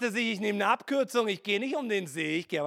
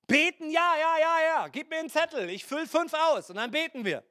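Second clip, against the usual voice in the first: mock eager believer; 5 semitones higher than usual. Mocking eager churchgoer.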